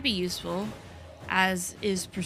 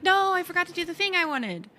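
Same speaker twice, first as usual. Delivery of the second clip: mock panic; 9 semitones higher than usual. Player retells thinking a task was forgotten, mock panic. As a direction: replay your panic in a much higher voice.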